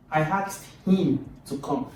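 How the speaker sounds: "him" stressed above "to come"; emphasis on him. Shown as a demonstration. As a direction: pick out "him" in "I asked him to come". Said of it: "put the emphasis on him".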